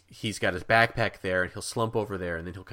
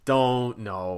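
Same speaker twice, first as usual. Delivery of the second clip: pleading crowd; 3 semitones higher, 7 dB louder, much slower than usual. Retold or imitated. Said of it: "all the people on the train immediately go".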